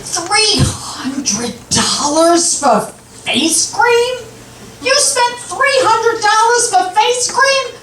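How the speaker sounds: high-pitched outraged husband, imitated; mock outrage, words stretched out then climbing high in disbelief; hit the ceiling. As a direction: act out a husband hitting the ceiling over a bill. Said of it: "hit the ceiling".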